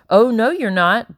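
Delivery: firm housekeeper forbidding; firm refusal. Acted. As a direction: stop her in her tracks, slowly. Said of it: "Becky said".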